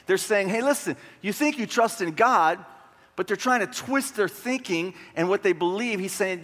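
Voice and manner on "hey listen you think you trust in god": lightly mocking, higher-pitched challenge; taunting messenger. Messenger taunting people who trust in God, mildly mocking. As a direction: challenge their faith with a mild taunt. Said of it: "he's in his taunt and trash talk".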